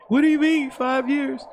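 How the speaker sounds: high, outraged disbelief; incredulous high question. Real, not acted.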